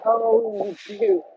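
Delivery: high squeal of surprise; surprised. Real, not acted. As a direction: squeak it out in disbelief. Reacting to a chat comment.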